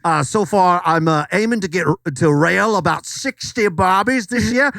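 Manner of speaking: lightly put-on Australian accent; hammed-up Aussie TikToker. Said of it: "I'm Sean Connery's cousin".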